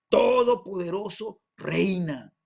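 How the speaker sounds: loud, drawn-out declaration from heaven; thunderous proclamation. Acted. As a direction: proclaim it slowly and loudly, like thunder. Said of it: "como la voz de grandes truenos que decía". (proclamación atronadora)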